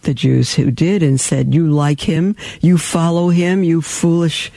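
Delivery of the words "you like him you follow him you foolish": mocking. Unbelieving Jews taunting believers with a mock sneer. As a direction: scoff at them as fools. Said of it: "And they mocked them".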